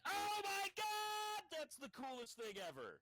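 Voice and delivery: thrilled, high-pitched outburst; excited scream. Real, not acted. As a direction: blurt it out in sheer delight. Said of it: "Sorry about screaming".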